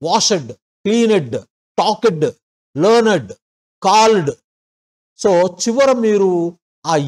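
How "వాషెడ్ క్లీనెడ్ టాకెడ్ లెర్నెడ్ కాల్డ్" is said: every word ending in a full "ed" syllable; mock student list; learner's -ed readings. Shown as a demonstration. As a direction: list the wrong forms one by one. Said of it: "record చేసుకొని వినండి".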